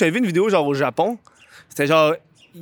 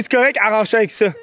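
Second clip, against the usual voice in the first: higher, quicker brush-off; re-enacted snappy dismissal, fast and raised; brusque retold reply; 5 semitones higher, faster than usual. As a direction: rattle off a curt reply, pitched up. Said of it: "Je pense que de la façon que j'ai".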